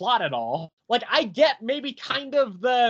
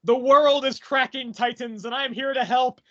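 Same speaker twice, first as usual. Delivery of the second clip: lightly voiced Swamp Thing; 2 semitones higher than usual. Swamp Thing arriving to help the Titans, mock-heroic. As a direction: announce it with mock grandeur. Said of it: "so he's like".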